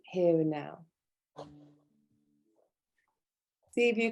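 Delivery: unhurried meditation guide, long pauses between phrases; guided meditation. Real, not acted. Yoga teacher leads students into stillness, guided meditation. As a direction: settle listeners gently, phrase by phrase.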